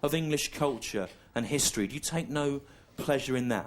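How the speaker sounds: a hint of a pompous schoolboy; mock earnest schoolmate. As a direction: schoolmates pressing him on English culture, mildly mocked. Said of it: "Then they go to me".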